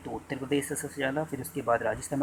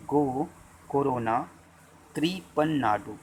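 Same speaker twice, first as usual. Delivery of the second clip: each word spoken slowly and loud for dictation; dictating slowly; 4 dB louder, slower than usual. Shown as a demonstration. Teacher dictating the mnemonic to students, slow and loud. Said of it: "चलिए लिखिए".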